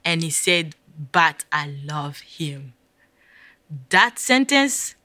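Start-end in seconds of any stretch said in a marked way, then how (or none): 1.1-2.7 calm the guilt with gentle love; tender reassurance. Retold or imitated. Christ gently reassuring the kneeling sinner, slow and tender.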